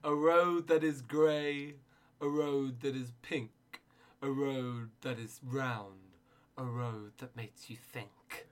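very slow, spaced-out poetry reading; mock earnest poem recital, slow and deliberate. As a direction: read it like a solemn poet at an open mic.

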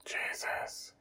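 breathless unvoiced whisper. Justin overwhelmed by the dreamer's panic, whispering. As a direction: breathe it out in dismay. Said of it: "he whispers".

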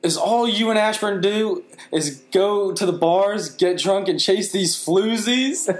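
high, mock-scandalized mother, slowing on floozies; scolding mom. Son retelling mom's scolding about bars, high and mock-shocked. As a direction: imitate mom accusing you of bar-hopping. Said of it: "she's like".

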